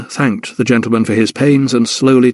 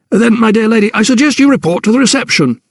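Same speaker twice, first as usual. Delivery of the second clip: put-on old doctor; 10 semitones higher than usual. Doctor directs Hannah.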